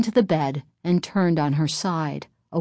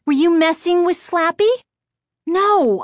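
put-on suspicious kid voice; 12 semitones higher, 6 dB louder than usual. A narrator's reading. Voices the sisters.

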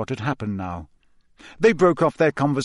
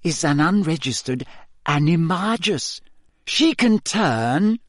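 quiet triumph; 6 semitones higher than usual. A narrator's reading. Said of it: "voice trembled with quiet triumph".

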